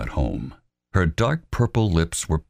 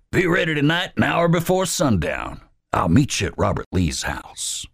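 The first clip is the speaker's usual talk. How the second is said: Wallace's voice; 11 semitones higher than usual. Acted. Wallace putting Albert in charge, commanding. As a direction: lay out the orders firmly.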